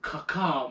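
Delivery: spoken mock caw; imitated bird call. Storyteller imitating his friend's warning signal, mock bird call. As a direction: give a half-hearted crow signal. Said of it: "He does this".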